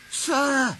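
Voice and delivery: gasped. A narrator's reading. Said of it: "gasped Douglas".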